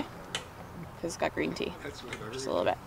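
whispered aside; whispering. Real, not acted. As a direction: whisper it like a secret. Aside about child's kombucha.

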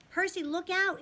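high, urgent warning shout; crying out. A narrator's reading. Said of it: "Annabeth cried".

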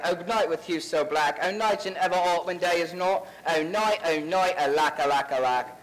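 grandly overacted Bottom speech; hammy Shakespeare. Actor hamming Bottom to liven up the play. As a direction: ham it up as a bad Bottom.

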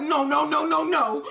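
hammed-up wailing string of no's; half-sob it in exaggerated panic; mock freaking out. Tommy freaking out at his crib over Ghost, mock panicked wail. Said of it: "Tommy is freaking the fuck out".

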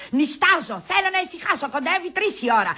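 firm, irritated announcement; mildly exasperated protest; fed-up complaint. Acted. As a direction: state it with weary impatience. Sleepy woman throws them out.

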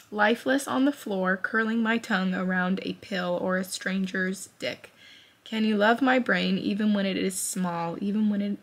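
reading through tears, voice unsteady; choked-up reading aloud; emotional reading. Real, not acted. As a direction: keep reading while fighting tears. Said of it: "I'm getting emotional".

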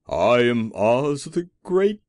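high, loud, frightened little man; grand words in a high, trembling voice. A narrator's reading. The little man confesses to the Woodman, high and trembling. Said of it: "in a trembling voice".

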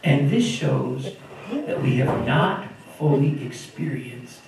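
slow, weighty reading of the verse; solemn scripture reading. Acted. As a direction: read each phrase slowly and with weight. Reads the scripture verse aloud.

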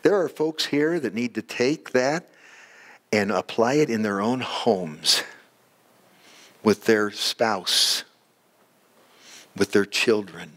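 measured, unhurried prayer; closing prayer. Real, not acted. Pastor thanking Heavenly Father for the congregation, praying. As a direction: pray aloud with long pauses between phrases.

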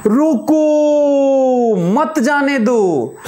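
half-voiced chase cry, very slow; mock shouting. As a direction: imitate yelling after someone, stretching the first word. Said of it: "चिल्ला भी रहे हैं".

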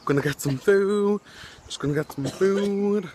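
mock repetitive. Shown as a demonstration. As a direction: chant it like a broken record. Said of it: "That's all I've said".

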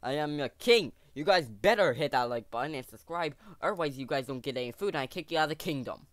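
a touch of a bossy loud king; roaring tyrant king. Pretend. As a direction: command your subjects, half joking. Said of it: "doing this for the video".

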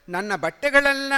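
plain reading voice

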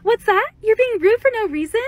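customer-service phone greeting voice; call center voice. Shown as a demonstration. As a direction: put on your call center agent voice. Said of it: "I'm gonna do my call center voice".

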